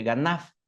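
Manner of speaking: "ganaf" ending on a clear F; final F sound. Shown as a demonstration. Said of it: "con F al último". ("ganaf" con F al final)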